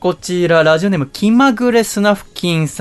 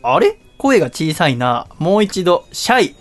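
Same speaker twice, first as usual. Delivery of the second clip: drill sergeant; slower than usual. Acted. Host demands a louder reply.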